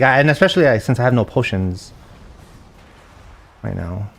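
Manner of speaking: ordinary talk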